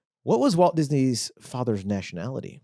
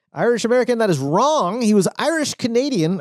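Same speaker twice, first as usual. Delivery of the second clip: game show host; 8 semitones higher than usual. Acted. Quiz host announcing wrong answer.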